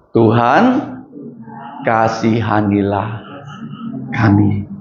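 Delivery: slow, soft plea for mercy; humble prayer. Shown as a demonstration. Teacher showing the children how to pray, slow and soft. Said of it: "Ayo coba sebut".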